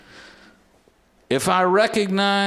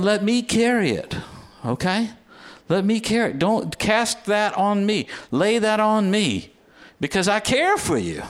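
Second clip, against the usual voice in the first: tender plea as God; 3 semitones higher than usual. Acted. Voicing God pleading tenderly.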